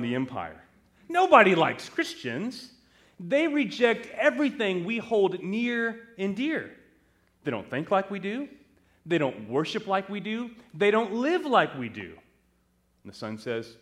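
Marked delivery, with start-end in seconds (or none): 1.1-12.2 raised pitch, acted parental protest; indignant objection. Parents object to their son joining the Christians, indignant. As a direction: protest in a higher voice, point by point.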